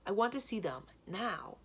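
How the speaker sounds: firm, pressing demand; insistent. Acted. Boy demanding to see his sister, insistent. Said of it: "Vic insists".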